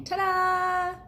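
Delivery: high, sung-out ta-da; triumphant ta-da. Acted. Boy showing his parents the giant cookie, high and triumphant. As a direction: present it proudly. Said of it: "like he's saying".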